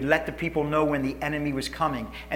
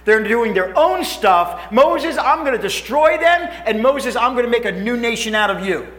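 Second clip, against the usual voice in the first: God furious; 5 semitones higher, 5 dB louder than usual. Acted. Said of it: "He's furious".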